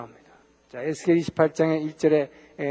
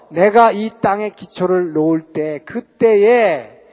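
slow, louder proclamation of God's words; proclaiming God's words; 2 semitones higher, 6 dB louder, slower than usual. Acted. Preacher proclaiming God's voice to the congregation, slow and louder. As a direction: declare it slowly, louder, like God.

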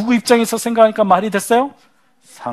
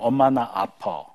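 put-on hurting child; 7 semitones lower, 5 dB quieter, slower than usual. Child's hidden feeling voiced.

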